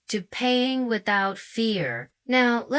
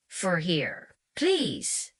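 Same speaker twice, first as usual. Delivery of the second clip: more confident; 3 dB quieter, slower than usual. Acted. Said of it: "more confident this time".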